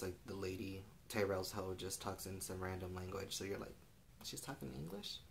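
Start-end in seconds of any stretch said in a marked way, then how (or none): 4.2-5.2 high, soft, incredulous question; puzzled reaction. Acted. Viewer reacting to the lady switching language, puzzled. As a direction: ask it softly, voice lifting in disbelief.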